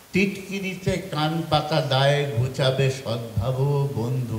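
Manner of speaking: measured verse, dropping on closing phrases; poetry recitation. Acted. Recites third poem. (কবিতা আবৃত্তির সুরে)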